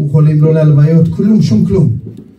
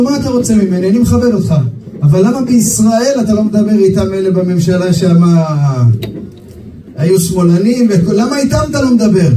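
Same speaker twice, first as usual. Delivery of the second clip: Mubarak voiced; 2 semitones higher than usual. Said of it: "אמר לו".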